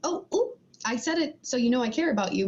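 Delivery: mock hollow concern; careless quick check-in. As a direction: toss it off like it doesn't matter. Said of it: "a real quick".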